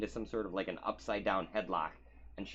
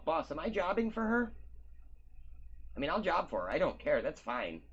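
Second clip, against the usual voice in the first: higher, chatty eager wrestler voice; 5 semitones higher than usual. Acted. GM voicing a wrestler chatting up the new partner, eager and chatty. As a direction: babble on like a nervous eager fighter.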